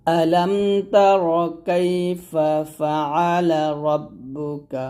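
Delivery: slow melodic recitation, rising on the openings; Quran recitation. Shown as a demonstration. Teacher reciting the verse for students to repeat. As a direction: recite the verse slowly, chanting. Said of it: "আয়াতটা আমার সাথে পড়েন".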